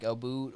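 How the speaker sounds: "a boot" with oo in place of ow; Canadian pronunciation. Retold or imitated. Recalling a trip to Canada, "a boot" said with an oo vowel. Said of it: "it was, like".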